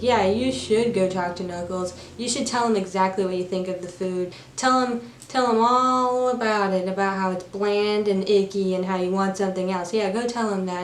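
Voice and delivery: mock-encouraging, a touch of annoyance; annoyed inmate goading. Annoyed inmate pushing the newcomer to complain, goading. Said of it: "One guy's annoyed with Paddington".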